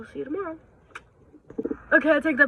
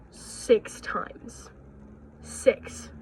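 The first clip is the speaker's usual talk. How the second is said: emphatic whisper; much slower than usual. Real, not acted. Stressing how often she read it.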